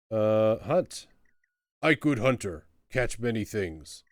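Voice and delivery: loud, boastful troll; blunt, booming troll. Acted. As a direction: belt it out like a primitive troll hunter. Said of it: "Troll, I mean".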